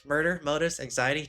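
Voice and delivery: Kyoka. Acted. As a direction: say it in her voice, slightly lifted. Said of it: "supposed to be her talking, not Yuki".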